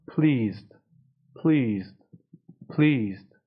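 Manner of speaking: PLEASED with a long drawn "ee"; stretched vowel. Shown as a demonstration. Teacher showing learners Pleased with long ee. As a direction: puff the P, then stretch the ee in Pleased.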